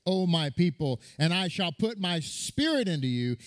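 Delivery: slow, solemn proclamation of the prophecy; a preacher reading Ezekiel with weight; emphatic scripture reading. Acted.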